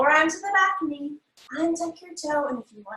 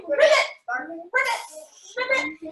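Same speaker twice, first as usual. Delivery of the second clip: playful imitation frog ribbit; frog croak; 2 semitones higher, much slower than usual. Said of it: "jump up into your frog pose".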